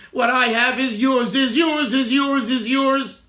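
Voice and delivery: "yours" driven home in rhythmic repeats; emphasis on yours. Shown as a demonstration. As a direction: land on "yours" each time, falling at the end. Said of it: "We emphasize the shelach".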